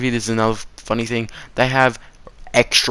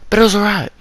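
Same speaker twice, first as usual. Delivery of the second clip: sudden perk-up; 11 semitones higher, 8 dB louder, faster than usual. Real, not acted.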